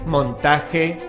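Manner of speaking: ordinary talk, nothing marked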